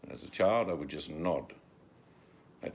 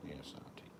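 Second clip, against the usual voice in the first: small, much softer yes auntie; meek child reply; 3 semitones lower, 15 dB quieter than usual. Retold or imitated. A child nodding along to his scolding auntie, meek and soft. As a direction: answer like a cowed little kid. Child answering aunt meekly.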